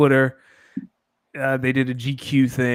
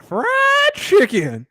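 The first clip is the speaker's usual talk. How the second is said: a hint of her drawn-out way of saying it; lightly mimicking her; 6 dB louder, slower than usual. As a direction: say it the way she did, mildly. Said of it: "That's how she said it".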